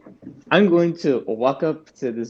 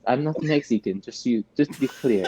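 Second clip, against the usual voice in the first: Garbanzo voice. Acted. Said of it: "shake it around and go".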